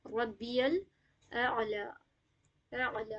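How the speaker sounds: ربی with a bounced ba, الاعلی drawn out; slow recitation demo. Shown as a demonstration. Teacher models the qalqala for students. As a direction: bounce the ba once, stretch الاعلی. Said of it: "ایک بار قلقلہ ہوگی".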